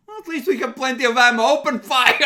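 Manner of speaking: fast, high, shouting officer; Inquisition officer. Acted. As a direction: bark it out like a zealot.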